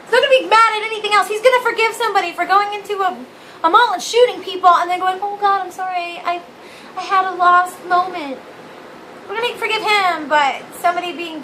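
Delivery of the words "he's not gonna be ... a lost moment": high, mocking churchgoer voice; mocking believer. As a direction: sneer it like a smug believer. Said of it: "Then you're like".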